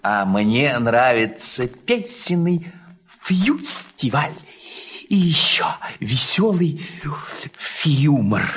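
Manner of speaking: high, whispery little squeak; baby chick. Acted. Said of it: "пискнул в сарае цыплёнок Фью".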